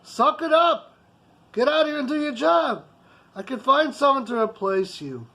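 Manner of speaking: an employer shouting down his staff; angry boss yelling. Retold or imitated. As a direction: bark out the ultimatum. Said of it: "escalate to the point where I tell them".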